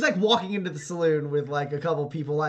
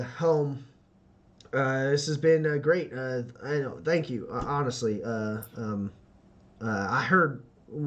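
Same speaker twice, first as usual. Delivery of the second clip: lower, hesitant, halting thanks; shy grateful young man; 3 semitones lower than usual. Acted. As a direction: stumble through your gratitude humbly. GM voices shy grateful Daryl.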